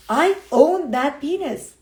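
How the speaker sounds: exaggerated territorial insistence; mock possessiveness. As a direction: stake your claim in mock outrage, slowly. Plays possessive spouse.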